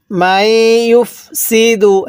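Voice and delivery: drawn-out Quranic recitation; tajweed recitation pace; slow recitation. Shown as a demonstration. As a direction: chant it slowly, syllable by syllable. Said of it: "এরপরে".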